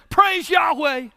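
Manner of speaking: mild imitation of a joyful shout; shouted praise. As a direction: call out praise to the crowd. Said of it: "somebody shouted".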